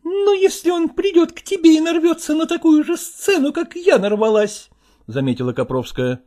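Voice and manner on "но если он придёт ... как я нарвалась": high, nagging wife's voice, reproaching him; reproachful wife. Acted. Wife reproaching her husband over his new things, high and nagging. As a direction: nag him in a raised woman's voice.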